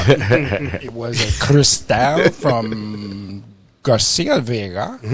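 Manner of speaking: slow, mock-posh naming of the cheap cigar; fancy. Host names the cheap cigar in a slow, mock-fancy voice. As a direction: savour the name like a luxury brand, slowly. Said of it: "You gotta say it fancy".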